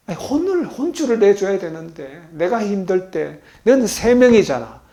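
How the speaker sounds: ordinary talk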